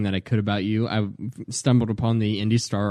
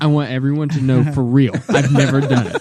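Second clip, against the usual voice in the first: louder, hammed-up earnest denial with a laugh; mock serious friend; 5 dB louder than usual. Mocking friend's serious face, in a hammed-up earnest denial. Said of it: "He's like".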